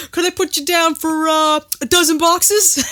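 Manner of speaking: mock pondering, slowing into the question; hesitant salesman. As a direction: imitate a seller thinking it over mid-sentence. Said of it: "The way he thinks about it".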